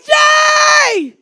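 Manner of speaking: very high, very loud laughing yell; laughing shout. Retold or imitated. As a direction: call out his name, laughing. Calling after the running boy.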